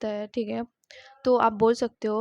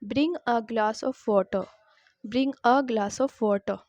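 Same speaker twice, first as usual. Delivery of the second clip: each word spelt out slowly for learners; slow model sentence; much slower than usual. Shown as a demonstration. Teacher to students, slow clear model sentence. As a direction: say it very slowly so students can copy. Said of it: "Repeat after me".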